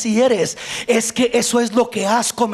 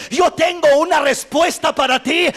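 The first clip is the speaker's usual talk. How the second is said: God's proclaiming voice; 4 semitones higher than usual. Acted. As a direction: thunder God's promise from the pulpit. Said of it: "Pero Dios dice".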